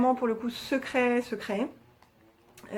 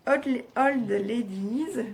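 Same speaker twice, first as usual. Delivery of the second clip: clumsy English; much slower than usual. Real, not acted. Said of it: "j'ai un accent pourri". (prononcer "Old Ladies" lentement avec un fort accent français)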